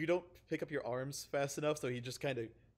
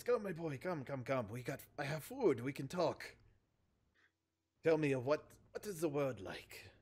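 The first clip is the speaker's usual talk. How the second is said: put-on Russian accent. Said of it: "doing a terrible Russian accent".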